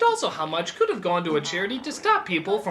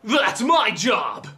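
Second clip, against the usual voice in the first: shout; 3 semitones higher, 6 dB louder, much slower than usual. Acted. Joke retort shouted.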